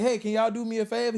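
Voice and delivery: lightly put-on Haitian accent. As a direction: imitate an old man's Haitian accent. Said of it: "He got an accent, a, um, a Haitian accent".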